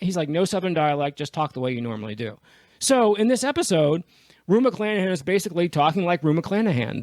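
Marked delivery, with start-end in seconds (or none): 0.3-2.4 firm instruction. Retold or imitated. Director tells actress to drop the accent, firm. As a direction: imitate a director laying down a rule.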